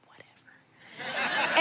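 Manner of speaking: slow, breathy whatever; dismissive whisper. Retold or imitated. Mom dismissing the father's words in a whisper. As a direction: brush it off under your breath. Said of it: "I was like".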